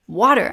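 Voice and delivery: "water" copied in a lightly exaggerated accent; son's mimicry. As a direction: imitate a kid copying mum's "water". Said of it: "And he was like".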